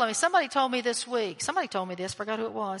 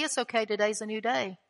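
sweet voice; 2 semitones lower, 4 dB quieter than usual. Retold or imitated. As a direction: softly quote God's sweet reassurance. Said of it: "that sweet voice that's gonna say".

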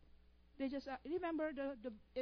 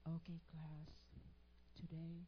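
imitating professor; 8 semitones lower, 9 dB quieter than usual. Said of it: "She will talk like this".

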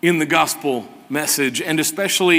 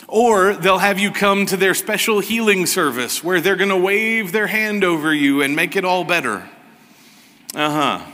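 sarcastic; 3 semitones higher than usual. Real, not acted. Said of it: "don't hear the sarcasm in my voice".

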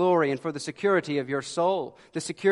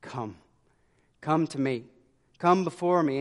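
God inviting. Acted. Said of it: "specific times where God says".

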